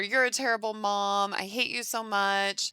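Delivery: lightly yelled insult; mock yell. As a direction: hurl it like a hurt kid. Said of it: "So he's yelling at her".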